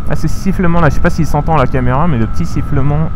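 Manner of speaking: muffled behind a closed visor; inside a motorcycle helmet. Real, not acted. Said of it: "attendez, je vais ouvrir mon visière".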